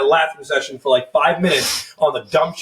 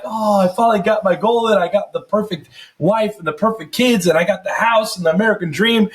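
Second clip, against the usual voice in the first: dreamy boast; 5 semitones higher than usual. Retold or imitated. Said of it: "And I'm like".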